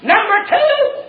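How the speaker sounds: high, drawn-out preacher's holler; slow, soaring announcement; shouted count. Real, not acted. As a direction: call out the point, stretching it long. Shouted count of David's punishments.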